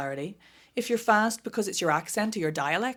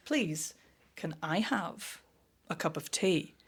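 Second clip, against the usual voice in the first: slow flat request; 6 dB quieter, slower than usual. Retold or imitated. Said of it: "I won't be like".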